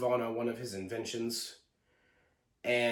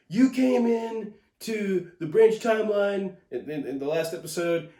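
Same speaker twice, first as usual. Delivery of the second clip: high, loud mocking Sylvie voice; 7 semitones higher, 4 dB louder than usual. Reviewer mocking Sylvie blaming Loki, high and loud. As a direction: parody her accusing tone, pitched up. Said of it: "She's like".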